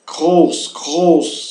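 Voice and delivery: "Groß" with the R made in the throat; throaty German R. Shown as a demonstration. Teacher showing how the R is pronounced, throaty German R. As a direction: model "groß" twice with a guttural R. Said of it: "a R se pronuncia fazendo gar".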